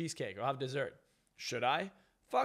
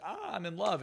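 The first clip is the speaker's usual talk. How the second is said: mock lovestruck; 5 semitones higher than usual. Mimics lovestruck woman with loser.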